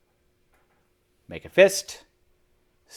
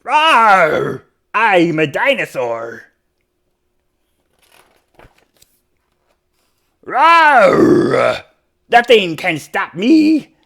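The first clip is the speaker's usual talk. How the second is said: louder proud little dinosaur boast; lightly voiced dinosaur; 7 semitones higher, 6 dB louder, slower than usual. A narrator's reading. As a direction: roar like a playful dinosaur. Dinosaur character roars.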